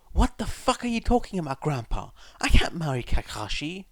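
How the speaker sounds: high outraged shriek. Acted. Obito shrieking at his grandpa in outrage. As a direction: shriek it, loud and high, in disbelief. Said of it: "Obito shrieks".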